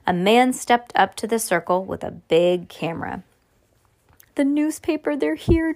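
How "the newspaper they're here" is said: higher-pitched, eager news; lightly acted excited announcement. A narrator's reading. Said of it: "Judy announced".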